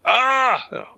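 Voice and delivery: pained yell. Acted. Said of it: "I'm just gonna be like".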